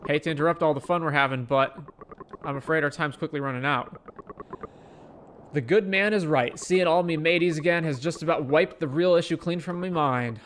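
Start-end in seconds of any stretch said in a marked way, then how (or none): 5.5-10.4 pirate voice. Acted. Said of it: "the pirate voice".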